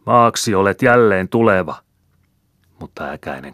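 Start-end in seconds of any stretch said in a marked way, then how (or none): 0.1-1.8 higher, louder hurried cry of the rite; frightened priest crying out the liturgy; alarmed shout. A narrator's reading. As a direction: shout the words as the coffin rises. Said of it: "heitti kiireesti toisen lapiollisen ja huusi".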